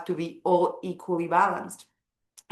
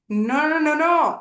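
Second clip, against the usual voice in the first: emphatic no; 6 semitones higher, 5 dB louder than usual. Real, not acted. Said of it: "rejecting extremes emphatically".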